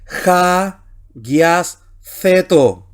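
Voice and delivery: "ja, guias, ceto" in separate chunks, "ja" with a guttural J; Greek reading demonstration. Shown as a demonstration. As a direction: say "ja, guias, ceto" piece by piece, pausing between. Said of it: "Así que aquí sería".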